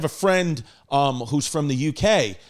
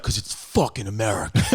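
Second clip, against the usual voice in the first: laughing retort; 8 semitones lower, 3 dB quieter than usual. Retold or imitated. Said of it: "And I was like".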